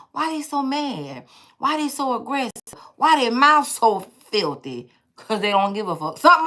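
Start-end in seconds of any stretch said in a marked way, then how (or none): 0.1-4.9 imitated questioning. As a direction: draw out each question, imitating someone else. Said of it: "That's what they saying".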